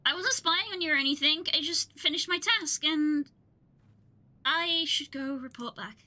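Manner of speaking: lightly voiced game character, polite; a hint of a courteous townsfolk voice; NPC quest giver. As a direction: read the quest giver's lines with a touch of character. Reads NPC dialogue.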